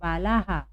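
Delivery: "बालाहा" with a final echoed हा; visarga demonstration. Shown as a demonstration. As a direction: repeat "बालाहा" for learners, visarga voiced as हा. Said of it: "क्या पढ़ेंगे हम?".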